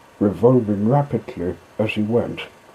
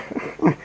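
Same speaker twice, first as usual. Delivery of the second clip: mocking laugh. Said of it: "still laughing".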